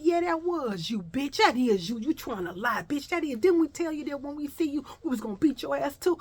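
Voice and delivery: high-pitched mocking accusation; accusing taunt. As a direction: sneer it at her like a bully. Girl accuses her, threatens.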